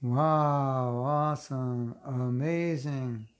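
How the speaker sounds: slow, stretched-out wonder; awed exclamation. Shown as a demonstration. Speaker marvels at the verse, slow and awed. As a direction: draw each word out in awe.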